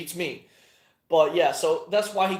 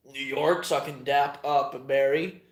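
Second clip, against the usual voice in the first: usual speaking voice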